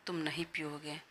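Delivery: whispered warning; a stubborn whispered aside. Acted. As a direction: breathe it as a secret threat. Shagun warns him softly.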